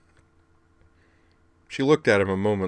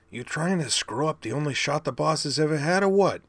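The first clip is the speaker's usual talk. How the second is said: much higher, brash punk voice; scrappy robot kid; 9 semitones higher than usual. Acted. Rumble scolding his brother, brash high punk voice. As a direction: needle him like a cocky kid brother.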